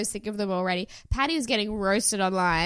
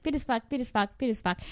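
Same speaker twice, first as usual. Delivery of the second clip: repeated impression; 2 semitones higher than usual. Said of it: "spot on impression of him".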